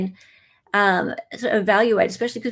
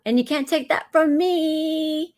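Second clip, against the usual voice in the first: imitating Gypsy Rose; 8 semitones higher than usual. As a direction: tease her catchphrase in a sing-song. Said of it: "I always like the way, like, she says".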